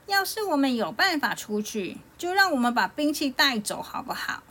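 a hint of a confident little boy; unhurried young hero. A narrator's reading. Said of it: "不慌不忙地对山神说".

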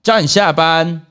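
mild retold anger. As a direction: spell it out slowly like a boss losing patience. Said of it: "我就真的火气完全上来了".

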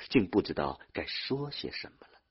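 ordinary delivery

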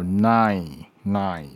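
nine ending in a clear n; nasal n in nine. Shown as a demonstration. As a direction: hum the n at the end of nine. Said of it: "你要有一个鼻音". (nine结尾要有清楚的鼻音)

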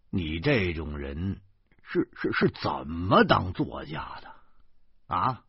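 weary, helpless sigh of a reproach; exasperated resignation. Acted. Zhou Pangzi, helpless, chiding the writer, resigned exasperation. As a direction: shake your head at him, resigned. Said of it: "无可奈何的说".

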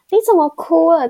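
suddenly notice the tears, mock-alarmed; mother spotting her daughter crying, asks in surprise; startled mom's question.

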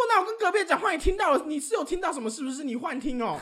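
high, loud indignant talk-back; student defending herself to the teacher, indignant and loud; mock indignant retort. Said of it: "我说".

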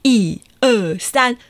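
high, long, stretched-out cheer; rally the kids to shout encouragement; cheering count. Shown as a demonstration. Storyteller leading children to cheer Kakai on, drawn-out cheer. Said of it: "我们来鼓励他哦".

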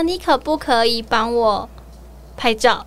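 slow, drawn-out polite asking; overly polite request. Retold or imitated. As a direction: ask ever so politely, taking your time. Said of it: "我不喜欢人家有太有礼貌的方式要求我". (过分客气地慢慢请求)

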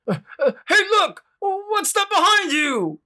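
high, stammering fake alarm; sly worm. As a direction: distract with a fake shout. Worm tricks bird.

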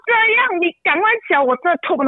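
begging him to get up, fading as she gives up; pleading with child. Retold or imitated. Mother begging her son to stand up, desperate pleading. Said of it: "我就跟他讲说".

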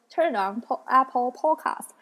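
slow, lightly British voice assistant; imitated British Siri. Phone assistant answering the speaker, imitated British accent. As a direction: echo a British assistant, drawing out Podcast. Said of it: "他就会说".

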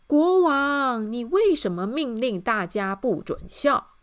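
loud opening, lifted questioning voice; cheerful questioning. A narrator's reading. Miss Optimist questions the king's ban, cheerfully. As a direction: call out, then ask brightly. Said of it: "笑眯眯地也看着他".

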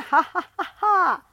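loud, high villain's ha-ha-ha; evil laugh. Acted. T-rex gloating about dinner, a loud evil laugh. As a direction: cackle over the coming feast.

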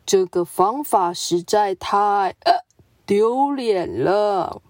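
a solemn, noble zebra brushing them off; serious zebra. Acted. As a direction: zebra politely declining to play. Zebra refuses.

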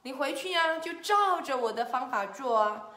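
a hint of a storybook doctor; pig doctor. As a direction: reassure the patient with lilting confidence. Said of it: "他就说".

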